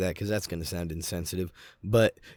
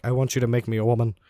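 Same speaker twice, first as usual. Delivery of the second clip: brother voice; 4 semitones higher, 6 dB louder, much faster than usual. Retold or imitated. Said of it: "he's like".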